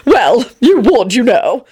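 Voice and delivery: slow wistful dandy sigh. A narrator's reading. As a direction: sigh it fondly. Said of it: "he sighed".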